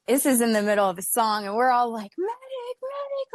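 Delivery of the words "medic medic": very high, urgent calling out; frantic call for help. Retold or imitated. Fan retelling a bloody fall, calling out high and frantic. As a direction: call for a medic in a panic. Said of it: "like, freaking out".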